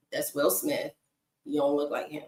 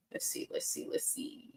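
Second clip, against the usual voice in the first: muttering to herself; 17 dB quieter than usual. Real, not acted. Muttering while reading label.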